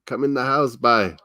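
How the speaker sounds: put-on broad Newfie "boy" said as "bye"; playful Irish-tinged Newfie accent; Newfoundland accent. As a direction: imitate a friendly Newfoundlander's lilt. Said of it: "They say it".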